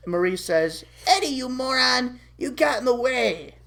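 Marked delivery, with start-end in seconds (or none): 1.1-3.6 higher, mildly angry rebuke; annoyed scolding. Acted. Marie to Eddie after the pie, irritated rebuke. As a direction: scold him for interfering.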